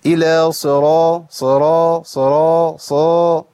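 صرا with the i under ص swallowed; slow mock mistake, drawn-out صرا with a dull first vowel; mistaken weak kasra. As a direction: imitate a reciter losing the kasra in صرا. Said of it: "زي ما بعض إخواننا بيعمل".

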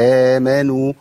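آمنوا with equal length at both ends; measured, two-count vowels in آمنوا; balanced long vowels. Shown as a demonstration. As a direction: stretch the first and last vowels of آمنوا evenly. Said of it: "حركتين في الأول وحركتين في الآخر يوزنوا".

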